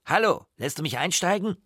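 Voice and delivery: put-on high, loud boyish holler; full-throated call. A narrator's reading. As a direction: call across the water to a rower. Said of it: "aus vollem Hals".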